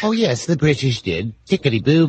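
lightly put-on British accent; mock British accent. Co-host playfully echoing the British settlers, mock British accent. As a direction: play at sounding British with stock phrases. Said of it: "get away with a British accent".

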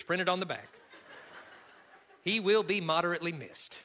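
folksy Kentucky accent, lightly put on. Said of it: "I'm gonna do it in my Kentucky accent".

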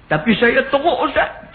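high-pitched tearful confession, acted out; imitated crying. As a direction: mimic someone wailing a confession.

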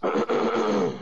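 throat clearing. Real, not acted. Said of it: "spit went down the wrong way".

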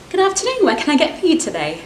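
high, bright sing-song "Good afternoon" rising at the end; eager barista cheerfully welcoming a customer, high and rising; chirpy barista greeting. Acted. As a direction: greet the customer like the best day ever. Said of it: "Expectations versus reality".

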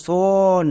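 সন with a long held "o"; সন sounded out as "sooon"; drawn-out vowel. Shown as a demonstration. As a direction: stretch the o in সন so learners hear it. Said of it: "একটা ও sound আসছে".

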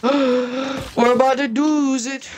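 breathless, slow anticipation; excited. Real, not acted. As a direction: gasp then hush it out. Gasped anticipation.

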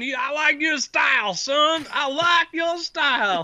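delighted shopkeeper. Acted. Delighted shopkeeper laughing approval.

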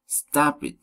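"Stop it" as a command, dropping at the end; falling command intonation. Shown as a demonstration. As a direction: order "Stop it" with a falling tune. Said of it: "falling intonation".

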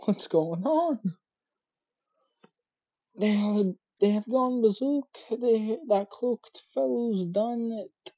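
high-pitched, alarmed townsperson. Acted. Voices a panicked character.

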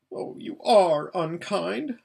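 high, fluttering voice of a pampered, scared lady; frightened Lasaraleen. Acted. Lasaraleen begs Aravis to feel her shaking, high and scared.

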